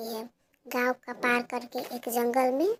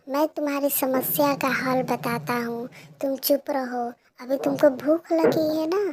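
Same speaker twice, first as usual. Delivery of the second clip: louder, reassuring kindly spirit; kindly tree; 6 dB louder than usual. Acted. Magic tree comforting hungry Pinky, reassuring. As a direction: hush her and offer food.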